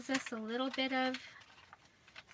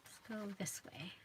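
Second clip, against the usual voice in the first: soft unvoiced whisper; 3 semitones lower, 10 dB quieter than usual. Real, not acted. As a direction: whisper it to yourself. Whispered aside while crafting.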